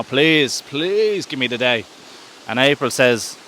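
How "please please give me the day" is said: drawn-out, slow plea; lightly acted beseeching; mock begging. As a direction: stretch out the please as you beg. March begs April for a day.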